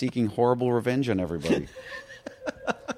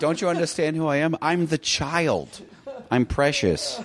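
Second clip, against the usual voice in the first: put-on higher, drawn-out spoiled kid; entitled child impression; 5 semitones higher, slower than usual. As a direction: play a precious child, pitched up. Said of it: "Now they're like".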